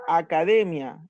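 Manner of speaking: "academia" with the syllable "de" stressed. Shown as a demonstration. Teacher giving an accent example, stressing DE in "academia". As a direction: lean on "de" in "academia". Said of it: "la sílaba D, lleva el acento".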